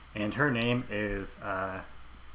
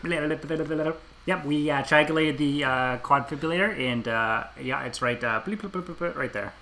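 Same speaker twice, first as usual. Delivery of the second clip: higher-pitched bumbling computer guy; improvised techie patter with spoken bleeps; funny tech sidekick; 4 semitones higher, slower than usual. Acted. Sidekick reports to his spy partner, comic techie voice. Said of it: "the funny sidekick, like the Simon Pegg character".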